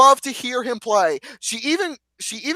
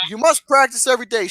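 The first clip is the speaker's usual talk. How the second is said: teacher voice; faster than usual. Acted. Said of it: "she said".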